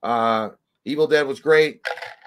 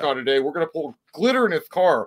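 higher, hyped fake-cheerful vlogger voice; mock prank YouTuber; 6 semitones higher, 4 dB louder than usual. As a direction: ham up a clueless prank influencer.

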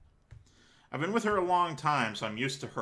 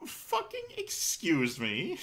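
offended; 4 semitones higher, slower than usual. Real, not acted. Offended reaction to insult.

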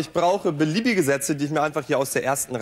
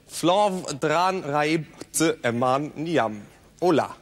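sentence spoken sound by sound in reverse; backwards speech. Shown as a demonstration. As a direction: reverse the whole sentence fluently. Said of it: "Sie können sich fließend mit Menschen rückwärts unterhalten".

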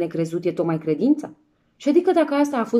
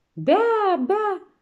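fierce bawl; 12 semitones higher than usual. Acted. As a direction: bawl the word out high. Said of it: "chiotul fioros".

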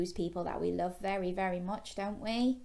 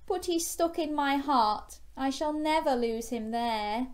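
higher, wistful character voice; a touch of storybook sorrow, pitched up; acted sadness; 5 semitones higher than usual. Gilbert consoling Rita, mildly sad raised voice. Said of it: "said Gilbert sadly".

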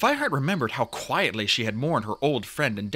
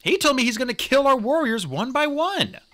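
high, urgent warning to the clan; raised voice, grave report; 12 semitones higher, 4 dB louder than usual. A narrator's reading. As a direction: deliver the threat as alarming news. Warrior reports threat to clan.

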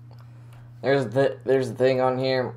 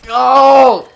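high loud cry; 12 semitones higher, 13 dB louder than usual. Real, not acted. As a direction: yell it out high. Sour candy reaction.

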